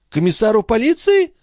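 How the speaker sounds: put-on high outraged cry of an old concierge; indignant old woman. A narrator's reading. The concierge outraged at Marat's accusation, high indignant cry. Grivette alarmed.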